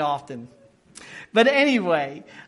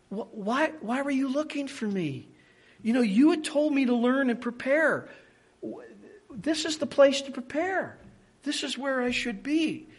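very respectful; 4 semitones higher than usual. Retold or imitated. Young Jesus explains himself to parents, respectfully. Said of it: "I think very respectful".

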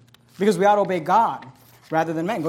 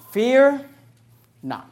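Fear raised and louder, long pause, then not; stress on Fear not; 4 semitones higher, 4 dB louder than usual. Shown as a demonstration. Pastor gives the congregation the whole application, with a weighty pause. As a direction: let Fear hang before not. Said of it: "The application is very simple".

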